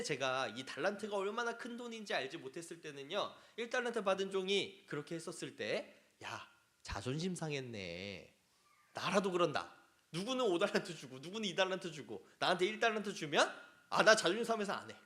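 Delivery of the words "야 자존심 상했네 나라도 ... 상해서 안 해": grumbling that grows into a loud, fast, resentful protest; indignant servant's grumble. Retold or imitated. The one-talent servant grumbling at his master, mounting indignation. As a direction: build from a sulky mutter to a loud complaint. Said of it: "하는 생각이 들 것 같았습니다".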